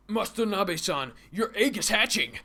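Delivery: high, loud student in mock Asian accent. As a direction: call out excitedly in an Asian accent. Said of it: "I'm going to use an Asian accent".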